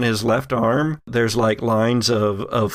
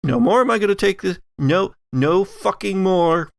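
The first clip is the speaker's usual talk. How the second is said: raised, rapid mock outburst; a hint of snapping fury, fast and higher; Allison fed up; 5 semitones higher than usual. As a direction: GM voicing a woman who has had enough. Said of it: "Allison says".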